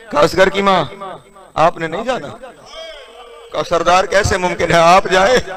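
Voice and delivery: soft, low mourning narration; hushed lament. Acted. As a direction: hush the hall with quiet sorrow.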